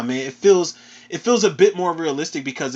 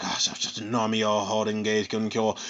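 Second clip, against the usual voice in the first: low, hushed imitation of whispering; mock whisper; 7 semitones lower, 6 dB quieter than usual. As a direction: mumble it low, like whispering into an ear. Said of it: "he whispers in his ear".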